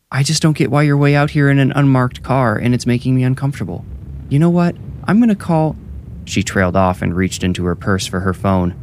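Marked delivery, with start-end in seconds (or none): 0.1-5.7 high-pitched protesting woman, rising further at the end; Tara uneasy. A narrator's reading. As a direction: object higher and higher, then break off. Tara protests to officer, growing uneasy.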